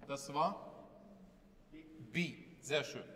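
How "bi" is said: short Arabic syllable "Bi." with a clear i; a teacher sounding out the Kasra, crisp "Bi."; teacher demo Bi. Shown as a demonstration. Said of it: "mit Strich unten".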